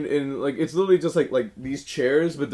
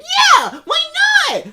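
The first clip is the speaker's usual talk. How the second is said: optimistic yes; 6 dB louder, slower than usual. Retold or imitated. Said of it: "had the same voice".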